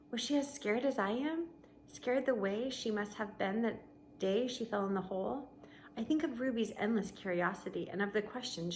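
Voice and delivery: steady read-aloud voice for the class; story narration. A narrator's reading. Teacher reading a novel to her class, storybook narration.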